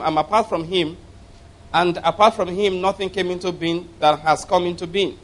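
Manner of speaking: solemn scripture reading from the pulpit. Acted. Reads the Bible passage aloud.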